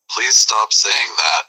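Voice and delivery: slow, drawn-out annoyed plea. Acted. Annoyed man begging someone to stop saying it, slow. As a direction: drag each word, losing patience. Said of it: "Getting extremely annoyed".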